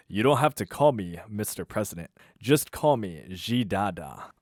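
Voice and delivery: a hint of a relaxed leader, easing up; president's voice. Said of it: "I'll do the voices".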